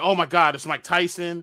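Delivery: ordinary delivery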